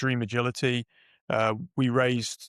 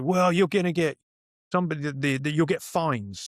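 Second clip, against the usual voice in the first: mock cautious advisers; 4 semitones higher than usual. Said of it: "And they're like".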